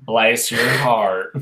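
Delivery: slow, low, drawn-out "Bless your heart"; "Bless your heart" lingered over, pitched low; Southern saying done right. Shown as a demonstration. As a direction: stretch out each word of "Bless your heart". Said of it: "Say it right".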